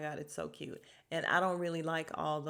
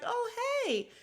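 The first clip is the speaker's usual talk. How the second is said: very high, offhand oh hey; a dismissive breezy hello; mimicking Sutton; 3 dB louder than usual. Vlogger mimicking Sutton greeting the mom late, airy. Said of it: "And then she's like".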